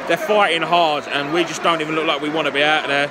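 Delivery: loud, fed-up match report; frustrated loud update. Real, not acted. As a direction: raise the voice at a losing team.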